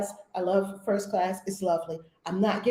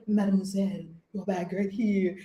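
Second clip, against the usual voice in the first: polite Paris agent; 4 semitones lower than usual. Retold or imitated. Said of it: "they're calling you mademoiselle in Paris".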